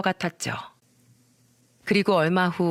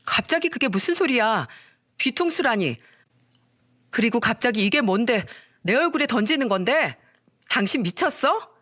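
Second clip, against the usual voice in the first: lightly voiced wife, higher, indignant; 4 semitones higher than usual. Wife retorts to husband throwing papers, higher and indignant. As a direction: push back, offended and higher. Wife snaps back in quarrel.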